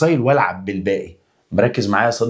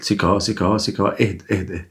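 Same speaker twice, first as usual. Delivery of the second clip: soothing calm-down; faster than usual. Shown as a demonstration. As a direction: settle him gently, like calming a startled pupil. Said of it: "لازم تقول له اهدى كده".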